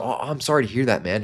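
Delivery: gently sympathetic, caring response; concerned, empathetic. Shown as a demonstration. Salesperson responding to a prospect's painful story, empathetic. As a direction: let it land as heartfelt concern. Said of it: "being concerned. So empathetic, soft, caring".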